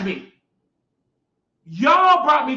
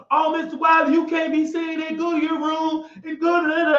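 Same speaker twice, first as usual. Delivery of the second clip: higher, put-on scolding nurse voice; imitating nurse; 4 semitones higher than usual. Man mimicking the nurse who scolds him, higher put-on voice.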